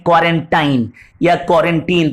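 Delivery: put-on क्वारंटाइन with -tine, then क्वारंटीन with -teen; two endings, क्वारंटाइन as "kwaran-tine" and क्वारंटीन as "kwaran-teen"; both pronunciations. Shown as a demonstration. Teacher showing the word said two ways, tine then teen. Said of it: "दोनों तरीके से pronounce होता है".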